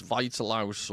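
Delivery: "Vitalaus" sounded out in three syllables; trying a pronunciation. Shown as a demonstration. Host trying out a commenter's name, "Vitalaus" carefully sounded out. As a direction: take "Vitalaus" slowly, syllable by syllable. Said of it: "pronounce his name eight different ways".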